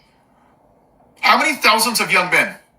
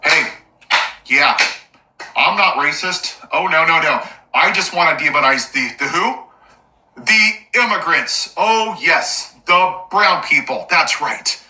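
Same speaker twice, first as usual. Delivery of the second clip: sarcastic mock racist.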